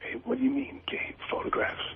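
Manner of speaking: very high, secretive, hushed half-whisper. Asked on air whether a rumor is true, answering half-whispering. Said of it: "Why are you whispering?".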